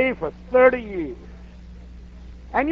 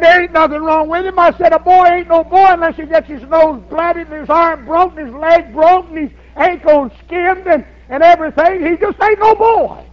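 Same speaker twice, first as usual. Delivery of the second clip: dismissive grandpa; 4 semitones higher than usual. Retold or imitated. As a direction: scoff at the fuss, voice raised. Grandpa brushing off the worry.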